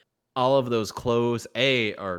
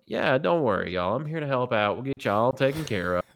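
Southern-accented IT support, pitched a little higher; 4 semitones higher than usual. Shown as a demonstration. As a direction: reassure the caller in a folksy Southern twang. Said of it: "I'll bring the accents".

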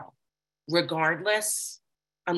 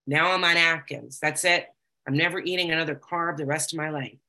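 diet vow; 4 dB louder than usual. Retold or imitated. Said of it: "changing my diet".

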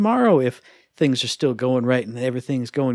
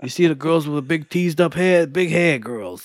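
put-on New Jersey accent; 3 semitones higher than usual. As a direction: lightly keep the Jersey accent. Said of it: "the New Jersey accent".

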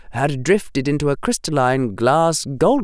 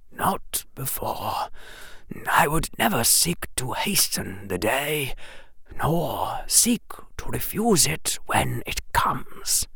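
put-on old headmaster whisper; 3 semitones higher, 7 dB quieter than usual. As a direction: breathe it like a frail old headmaster. Dumbledore whisper.

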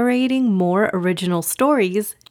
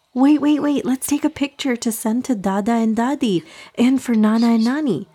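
excited mom; 4 semitones higher than usual. Acted. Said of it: "Mama excitedly took out her phone".

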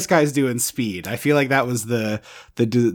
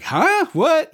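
confused. Retold or imitated. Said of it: "people will be like".

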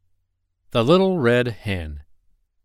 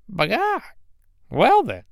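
hen voice; 12 semitones higher than usual. Acted. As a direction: squawk like a fed-up hen. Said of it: "said the little red hen".

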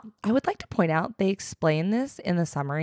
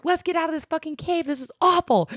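higher gruff hero line, mock-heroic; gruff Aragorn; 8 semitones higher than usual. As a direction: toss it off like a weary warrior. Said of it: "he's like".

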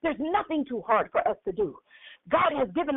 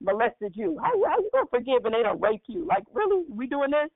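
tempting inner voice. Retold or imitated. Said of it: "the enemy in your ear".

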